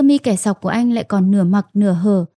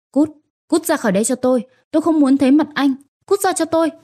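hysterical outburst; 5 semitones higher, faster than usual. Acted. Wife screams husband out.

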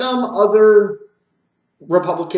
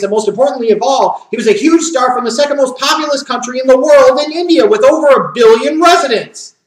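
louder and higher, pushing the point home; rising shout; 4 semitones higher, 5 dB louder than usual. Real, not acted. Ranting to wrestling fans about Khali's star power, loud and higher. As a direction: build to a near-shout on the big reveal.

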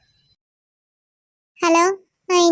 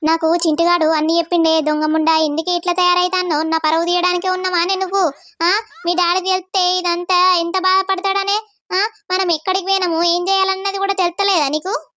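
angry mother. Acted. Mother scolding. (తల్లి గొంతులో తిట్టుకుంటూ, తక్కువ స్వరంలో)

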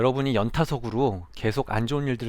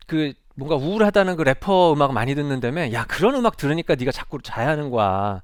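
meddling teacher; 4 semitones higher, 5 dB louder than usual. Retold or imitated. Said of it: "개입과 간섭이라고 느껴지는 말들".

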